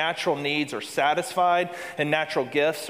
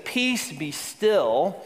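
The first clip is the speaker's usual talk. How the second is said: calm command; 3 semitones higher, much slower than usual. Acted. Jesus calms the storm.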